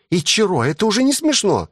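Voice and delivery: put-on high girlish reproach; lightly voiced young woman scolding; high-pitched annoyed girl; girl's voice. Female character scolding Ichiro.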